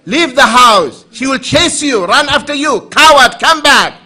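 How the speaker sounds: loud, high chasing taunt; mock angry wife yelling. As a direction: yell after the fleeing husband.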